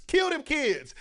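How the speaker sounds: hammed-up competitive parent calling out; retold trackside yell. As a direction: egg your kid on from the stands. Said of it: "I'm yelling at my kid".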